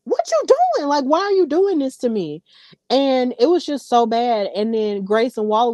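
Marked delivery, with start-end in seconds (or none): 0.0-2.4 much higher, pleading mock whine; whiny Trick. Retelling Trick's reaction to Carmelo: high mock whine. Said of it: "And Trick was like".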